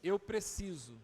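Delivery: mais baixo e devagar, em tom de oração; oração conduzida. Acted. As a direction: conduza a igreja em oração, com calma. (pastor conduzindo a igreja em oração, suave e lento)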